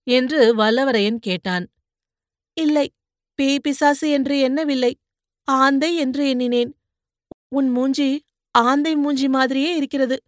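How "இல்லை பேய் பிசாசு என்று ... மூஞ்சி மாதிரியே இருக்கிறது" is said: higher, softer girl's voice, mocking a little; young woman needling the man she pulled from the mud; teasing young woman. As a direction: poke fun at his cries like a sharp-tongued girl. Poonguzhali insults his face.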